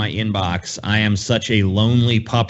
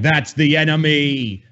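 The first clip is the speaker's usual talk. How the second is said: Trump blaming; 3 semitones higher, slower than usual. Retold or imitated. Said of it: "point to and be like".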